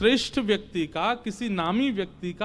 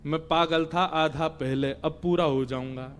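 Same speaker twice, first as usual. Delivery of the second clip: dazed; 5 semitones lower than usual. Acted. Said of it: "मुझे चक्कर आ रहे हैं".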